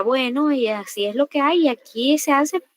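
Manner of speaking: scolding parent. Retold or imitated. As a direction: imitate a parent laying down the law, mildly. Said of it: "no se nos gritaba o se nos vulneraba". (regaño de padres, imitado sin gritar)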